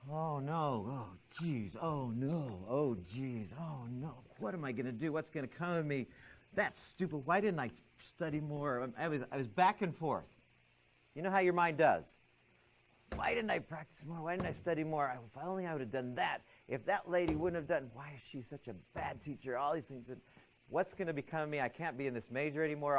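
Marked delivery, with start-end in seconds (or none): 0.1-8.9 mildly panicked thoughts. Retold or imitated. Student fretting to herself after a bad test score, mildly panicked. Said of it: "This is what my mind did". 13.2-23.0 acted-out worrying, higher, thoughts tumbling out; mock fretting, piling one worry on another; flooding anxious thoughts. Student blaming herself and the teacher, mildly panicked fretting. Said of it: "All these thoughts. are just flooding my mind".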